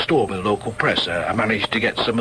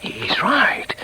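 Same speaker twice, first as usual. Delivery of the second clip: higher unvoiced admission to himself; whispered aside; 10 semitones higher than usual. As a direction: concede it silently under the breath. Inner thoughts whispered aside.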